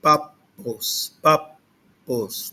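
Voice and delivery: "Papos" as pap, short silence, pos; pause inside the word. Shown as a demonstration. Teacher showing reconstructed Greek pronunciation, pause at double p. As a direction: stop on the middle p of "Papos", then release. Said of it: "uma pausa".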